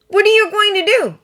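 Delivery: put-on a curious kid asking straight out; boy questioning the grown-ups, high and eager; little Jamie. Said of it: "Jamie asked".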